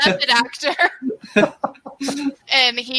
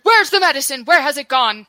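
urgent demand; 3 semitones higher, 4 dB louder, faster than usual. Acted. Freed captive demands the medicine.

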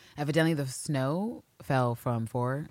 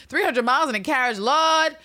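higher and louder, laughing disbelief; appalled exclamation; 12 semitones higher, 9 dB louder than usual. Real, not acted. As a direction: cry out at the thought. Appalled by the journey.

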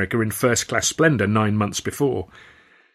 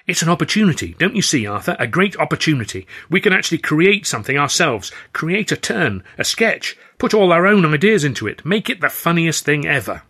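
higher, louder excited Stan; Stan enthusiastic; 7 semitones higher, 4 dB louder than usual. Acted. Stan cheering Arthur up about going solo, high and excited. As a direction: bubble over with eager ideas.

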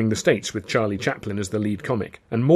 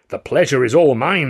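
louder, higher effusive greeting; delighted gushing; 4 semitones higher, 7 dB louder than usual. A narrator's reading. Manager meets supposed star, delighted. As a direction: gush at meeting your idol.

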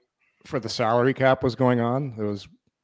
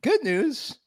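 imitating a teammate's big announcement, higher and louder; mock team rep announcement; 5 semitones higher, 5 dB louder than usual. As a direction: ham up the good news bad news pitch to the team. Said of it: "he goes".

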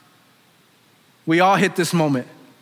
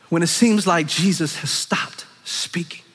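whisper; slower than usual. Acted. Whisper after preaching question.

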